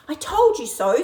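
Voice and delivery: loud high gloating. Acted. Baby bird gloats at Lizzie, loud and high. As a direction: crow I told you so.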